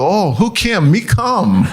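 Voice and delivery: a hint of mom's Korean accent. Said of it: "And she goes".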